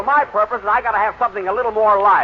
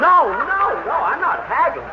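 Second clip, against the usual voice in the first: quick, higher flustered denial; hasty protest; 8 semitones higher, slower than usual. Acted. To the singer threatening to leave, a flustered high protest. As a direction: talk him out of walking away. Jack protests the haggling charge.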